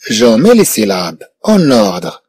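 slow, measured teacher reading; slow dictation. Shown as a demonstration. Teacher reading the instruction slowly to pupils, measured. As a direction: read each word slowly for the class. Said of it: "teacher models the instruction slowly".

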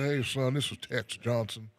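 light put-on Texan caller; Tex Johnson. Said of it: "with my Tex Johnson voice".

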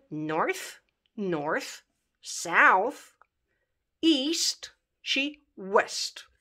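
"north, south, east, west" said one by one, drawn out; careful model pronunciation. Shown as a demonstration. Teacher modelling English compass points to learners, careful pronunciation. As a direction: model each English compass word slowly and clearly. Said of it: "să le pronunți cum trebuie".

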